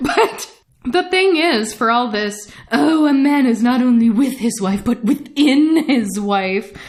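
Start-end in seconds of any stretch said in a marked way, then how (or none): 2.7-6.8 mock grand, theatrical, put-on dramatic delivery. The speaker, discussing a book, acts out its author's words: quoting the author mock-dramatically.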